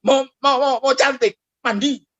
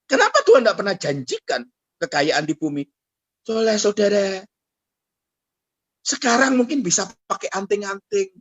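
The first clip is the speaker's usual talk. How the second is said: ordinary talk, nothing marked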